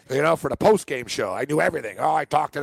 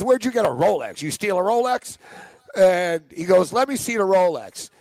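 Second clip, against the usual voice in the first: mock accusing; 4 semitones higher than usual. Manager questioning the fake Rolex.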